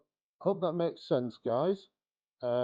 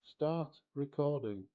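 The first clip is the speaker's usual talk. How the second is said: voice command; 2 semitones higher, 3 dB quieter than usual. Shown as a demonstration. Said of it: "demonstrate the voice command".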